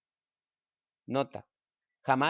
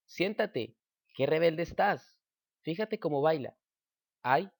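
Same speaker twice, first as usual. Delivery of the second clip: ejemplo exclamativo, más agudo y un poco más fuerte; léelo como una exclamación animada; exclamando; 3 semitones higher, slower than usual. Shown as a demonstration. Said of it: "signos de exclamación las interjecciones". (tono exclamativo de ejemplo)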